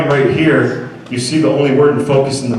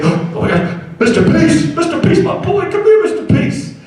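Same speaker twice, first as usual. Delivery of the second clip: put-on excited kid. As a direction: squeal for Mister Peace like a thrilled first grader. Excited first grader calling out.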